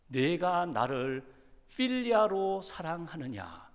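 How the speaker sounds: slow, tender question spoken very deliberately; gentle Jesus asking. Acted. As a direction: ask it slowly and gently, lowering the bar. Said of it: "예수님이 이렇게 질문을 바꾸십니다".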